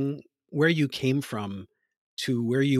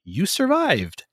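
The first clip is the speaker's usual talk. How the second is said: "you survived" lifted high and slowed, leaning on survived; slow the words down and let them land with weight; a dramatic reading of the article's phrase; emphatic quote; 8 semitones higher, slower than usual. Retold or imitated. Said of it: "as you put it in the article".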